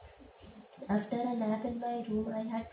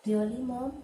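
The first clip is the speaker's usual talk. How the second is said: dry sarcastic "Really, Mom?"; 2 semitones higher, 4 dB louder than usual. A narrator's reading. Bride to her mother, sarcastic. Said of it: "my sarcasm not evident to her".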